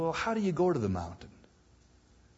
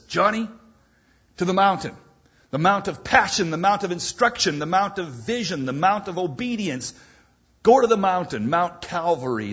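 louder, commanding call up to the mountain; the Lord calling; 3 semitones higher, 5 dB louder than usual. Acted. Preacher voicing the Lord calling Johnny: commanding shout. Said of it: "The Lord says".

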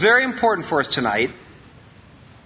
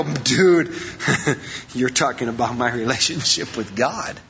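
mock protest; 7 semitones lower than usual. Congregant's imagined protest.

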